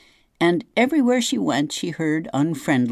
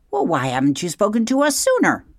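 higher, fast screech of accusation; 9 semitones higher, 3 dB louder, faster than usual. Acted. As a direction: snap it down from the treetop. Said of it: "screeched the owl".

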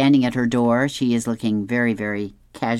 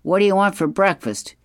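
higher-pitched, lightly hammed-up dad voice; chirpy comic dad, pitched up, slowing on the choices; 6 semitones higher than usual. A narrator's reading. Dad offers son breakfast in kitchen, higher comic dad voice. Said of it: "his dad says".

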